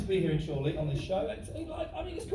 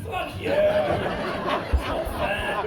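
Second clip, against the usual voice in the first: mock outrage; 7 semitones higher, 4 dB louder, much slower than usual. Mock outrage at the heckler's pun.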